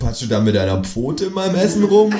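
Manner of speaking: rising, high protest; protest, voice climbing sharply to the end; indignant call. A narrator's reading. Diner calling out at kangaroo pawing his food. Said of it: "rufe ich".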